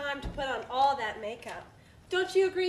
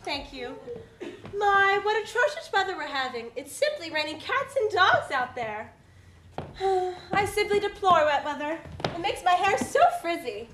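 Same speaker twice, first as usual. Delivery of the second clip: posh society lady. Acted.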